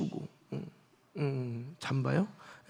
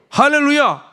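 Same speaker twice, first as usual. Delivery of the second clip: joyful hallelujah; 8 semitones higher, 7 dB louder than usual. Real, not acted. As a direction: ring out a high, loud hallelujah. Preacher exclaims hallelujah. (높고 크게 외치는 할렐루야)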